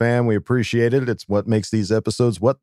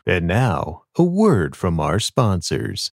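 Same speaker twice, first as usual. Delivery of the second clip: announcer; 5 semitones lower, slower than usual. Pretend. Hands over to sponsor break.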